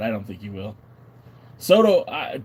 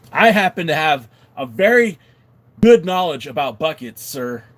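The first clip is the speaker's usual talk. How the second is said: play-offended, loud and emphatic; mock indignation; 3 semitones higher, 6 dB louder than usual. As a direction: object loudly as if insulted. Mock indignant reply to chat teasing.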